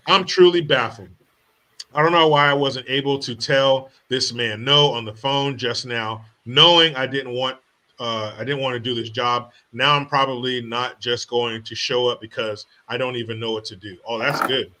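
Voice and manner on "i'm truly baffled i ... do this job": imitating the applicant. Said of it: "S1 clip says same words".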